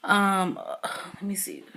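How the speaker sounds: very soft, whispered thinking aloud; muttered aside. Real, not acted. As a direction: whisper it to yourself while thinking. Aside to self while thinking.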